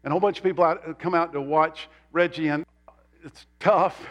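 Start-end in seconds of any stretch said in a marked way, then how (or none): 3.2-4.0 breathy whisper, no voice; hushed whisper telling how hard it was. Retold or imitated. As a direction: whisper it like a sympathetic aside. Reggie struggling at cricket exhibition.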